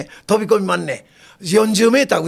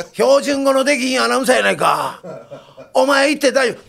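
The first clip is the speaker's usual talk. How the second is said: amused boss; 5 semitones higher than usual. Retold or imitated. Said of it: "その小銀君一いうのが".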